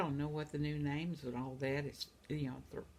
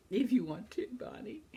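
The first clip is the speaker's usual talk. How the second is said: whisper; 4 semitones higher than usual. Real, not acted. Whispered aside to viewer.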